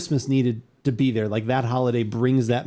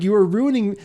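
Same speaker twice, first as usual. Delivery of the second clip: raised, higher-pitched indignant complaint; retold anger; 8 semitones higher, 4 dB louder than usual. Customer scolding the hot dog stand lady, mock indignant. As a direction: mimic an outraged customer scolding. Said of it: "he was very angry".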